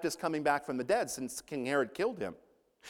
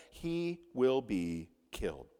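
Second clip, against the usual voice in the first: slow and lower, word by word; plain, grave statement; 4 semitones lower, 3 dB quieter, slower than usual. Retold or imitated. Jesus foretells his death to disciples, speaking slowly and plainly. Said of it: "Jesus speaks plainly and says".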